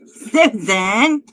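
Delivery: loud call for Susan; loud summoning call. Real, not acted. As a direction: shout her name across the room. Calling out to departed viewer.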